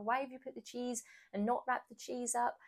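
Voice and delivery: playful exasperated scolding; mild mock rant. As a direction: imitate ranting at a partner, without shouting. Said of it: "Rather than ranting and raving".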